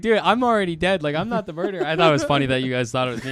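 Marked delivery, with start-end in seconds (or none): 0.0-1.9 exasperated protest. Retold or imitated. Retelling his protest while dead.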